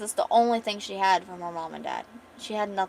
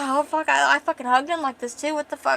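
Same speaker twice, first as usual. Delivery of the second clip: mortified outburst; 5 semitones higher, 5 dB louder than usual. Retold or imitated. Character mortified.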